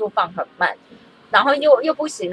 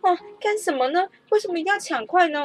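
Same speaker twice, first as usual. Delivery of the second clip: lecturing teacher; 2 semitones higher than usual. Retold or imitated. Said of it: "然后老师就开始说".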